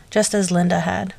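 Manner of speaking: ordinary delivery, nothing marked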